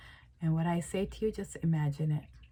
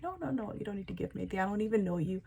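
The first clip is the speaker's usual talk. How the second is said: flustered polite refusal; 3 semitones higher, 3 dB quieter, much faster than usual. Acted. You to a generous stranger offering a gift, flustered refusal.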